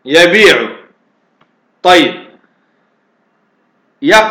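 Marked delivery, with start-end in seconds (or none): 0.0-0.7 يبيع with a long i, ya-bii-'u; resulting form. Shown as a demonstration. Teacher repeating the changed form, يبيع with a long i, ya-bii-'u. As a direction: say يبيع smoothly with the long vowel. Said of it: "فنقول يقول".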